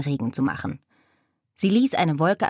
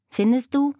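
little witch; 8 semitones higher than usual. Acted. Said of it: "meinte die kleine Hexe".

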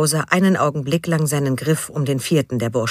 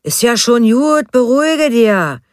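soothing; 8 semitones higher, 6 dB louder, slower than usual. A narrator's reading. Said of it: "beschwichtigte ihn".

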